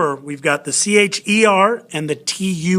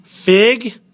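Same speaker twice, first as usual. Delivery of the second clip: "Fig" pitched high and punched; accented syllable; 5 semitones higher than usual. Shown as a demonstration. Teacher marking the accent for students, high stressed "Fig".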